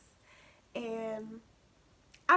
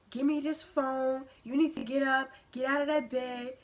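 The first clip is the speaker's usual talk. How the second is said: retold angry mom; 5 dB louder than usual. Mom ordering her out of bed.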